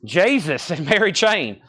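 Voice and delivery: Jesus drawn out in a southern accent. Real, not acted. Record auctioneer announcing a band to bidders, southern accent. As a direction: let the southern accent slip out. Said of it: "That's my southern accent coming out".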